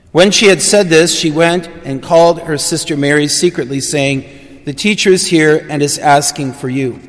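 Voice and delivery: steady, measured liturgical reading voice; gospel reading. Acted. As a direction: proclaim the gospel to the congregation. Priest reads gospel aloud.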